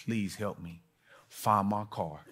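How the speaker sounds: soft, hushed plea to God; quiet prayer. Retold or imitated. Preacher praying in the parking lot, quietly. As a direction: pray under your breath for help. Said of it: "I said".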